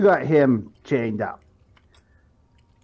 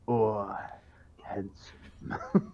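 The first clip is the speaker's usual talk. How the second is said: husky flirty whisper; 3 semitones lower, 8 dB quieter, much slower than usual. Acted. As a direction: breathe it out as a whisper. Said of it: "Tone it down a little".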